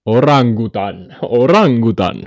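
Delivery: loud, stretched orangutan; hammed-up animal name. Streamer announcing the next animal, loud and drawn out. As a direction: draw the word out with gusto.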